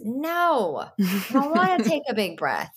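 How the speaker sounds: whiny refusal, lightly voiced child; defiant child. Daughter refusing deep breath.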